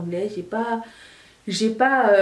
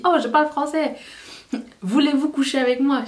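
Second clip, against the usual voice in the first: mocking anglophone tourist; 5 semitones higher than usual. Imitating an anglophone bragging.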